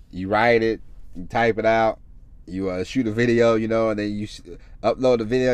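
ordinary talk, nothing marked

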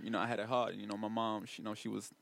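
low, soft rapper hard-luck parody; mock rapper talk. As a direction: imitate a rapper telling his struggle, hushed. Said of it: "Rappers talk like that".

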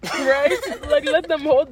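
loud, laughing through the words. Real, not acted. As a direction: say it while still laughing. Laughing at the bottle joke.

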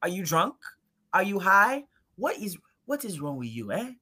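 mock African auntie scolding; imitated African auntie accent. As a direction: scold like a strict aunt. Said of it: "be like".

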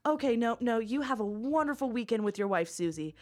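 polished corporate phone voice; upbeat professional phone manner; Harvard voice. Shown as a demonstration. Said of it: "And then my Harvard voice is".

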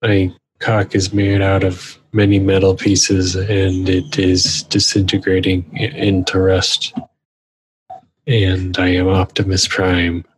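measured mock-solemn robot leader; a hint of booming robot hero; Optimus Prime. Transformer describing his rust, lightly boomed solemn voice. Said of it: "Optimus's voice is like".

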